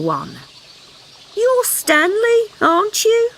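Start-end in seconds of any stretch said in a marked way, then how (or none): 1.3-3.3 slow high mother voice, unsure; a mum who forgets names; vague mother frog. Acted. Mother frog guessing name.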